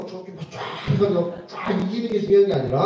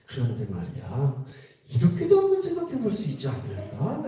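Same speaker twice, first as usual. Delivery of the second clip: gentle suggestion; 6 semitones lower, 5 dB quieter than usual. Shown as a demonstration. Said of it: "이게 한마디 하는 거죠".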